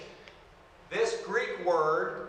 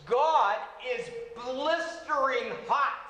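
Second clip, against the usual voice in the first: fervent preaching; 6 semitones higher, slower than usual. Real, not acted. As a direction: preach it big, with fire. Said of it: "Absolutely furious". (fervent preaching of God's fury, high and slow)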